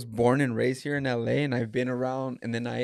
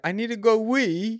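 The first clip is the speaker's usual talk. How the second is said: put-on British accent; 8 semitones higher than usual. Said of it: "she did this thing where her friend is like".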